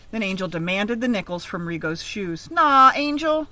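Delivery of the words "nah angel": begging. Acted. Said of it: "Rigo begged".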